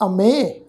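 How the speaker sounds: ਅਮੇ with a long "e" ending; pronunciation demo. Shown as a demonstration. Teacher shows how to read the word, ਅਮੇ as "a-mey". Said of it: "ਤੋ ਇਹਦਾ ਪਾਠ ਉਚਾਰਨ ਕਰਾਂਗੇ".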